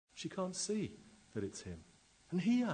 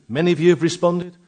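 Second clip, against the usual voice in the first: louder appeal; 6 semitones higher, 16 dB louder, faster than usual. Acted. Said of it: "preacher appeals to congregation".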